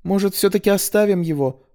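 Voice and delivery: high thin squeak; squeaky voice. Acted. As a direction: pipe up timidly, very high. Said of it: "пропищала Лина". (писклявый голосок)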